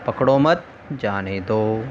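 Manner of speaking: "पकड़ो मत", pause, then "जाने दो"; group मत with पकड़ो, break, then जाने दो; pause after MAT. Shown as a demonstration. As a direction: break the phrase right after मत. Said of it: "सिपाही ने समझा".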